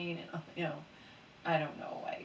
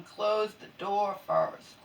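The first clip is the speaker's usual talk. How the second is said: louder, slow, stressing close; slow firm call; 6 dB louder, much slower than usual. Real, not acted. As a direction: order mom to shut the door. Calling to mom about neighbors.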